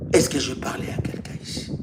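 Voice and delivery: whisper. Acted. Preacher suddenly whispers to congregation.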